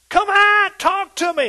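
very high, loud shout; king shouting. Retold or imitated. Nebuchadnezzar shouting into the fire, high loud call. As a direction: yell into the furnace. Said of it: "is what Nebuchadnezzar said".

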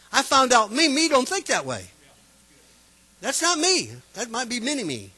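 high, loud fervent preaching; preaching at full force. Acted. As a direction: build it up like a revival preacher.

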